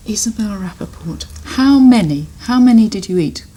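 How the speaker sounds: loud, mock-horrified questioning; mock-shocked. Real, not acted. Host teases the child about eating too many, loud mock shock. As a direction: pretend to be scandalised.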